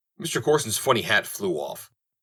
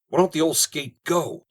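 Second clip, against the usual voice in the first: demanding; 8 semitones higher than usual. Acted. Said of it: "demanded Corson".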